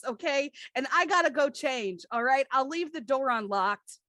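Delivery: high, loud impatient boss on the phone; a boss ordering the janitor to clean up his office; bossy phone call. Acted. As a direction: bark orders down the line to the janitor.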